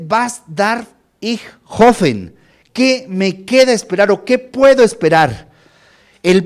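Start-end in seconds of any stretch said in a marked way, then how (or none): 0.1-2.3 "Was darf ich hoffen?" read slowly in German, each word drawn out; careful, slow German reading of "Was darf ich hoffen?"; German quote. Shown as a demonstration. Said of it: "vean, entonces dice".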